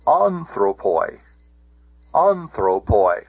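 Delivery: "anthropoi" as AN-thro-poi, drawn out slowly; stress on first syllable. Shown as a demonstration. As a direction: lean on the AN of "anthropoi", short final poi. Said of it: "the accent can go back".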